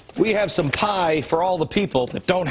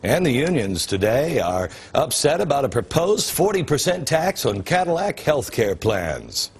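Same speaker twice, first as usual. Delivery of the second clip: boring news anchor. Shown as a demonstration. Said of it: "I would deliver it like this".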